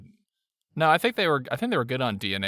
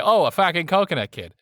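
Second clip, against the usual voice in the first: mock surprise; 5 semitones higher, 4 dB louder than usual. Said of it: "I'd say".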